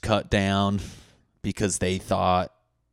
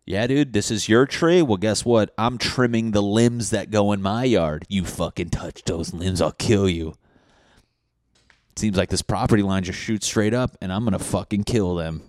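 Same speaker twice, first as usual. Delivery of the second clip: angry neighbor; 2 semitones higher, 6 dB louder than usual. Acted. Neighbor warning about his tree limbs, loud mock threat.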